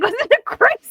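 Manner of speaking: high, loud mock-incredulous question; loud, high sarcastic jab at mother; sarcastic retort. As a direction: toss the question back at mom sarcastically. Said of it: "I was like".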